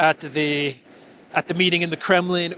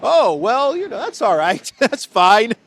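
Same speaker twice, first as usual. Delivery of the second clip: much higher, breezy shrug with a laugh; mock casual Trump; 4 semitones higher, 5 dB louder than usual. Trump shrugging off the reporter, laughing breezily. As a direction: brush it off like it's no big deal. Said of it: "And Trump said".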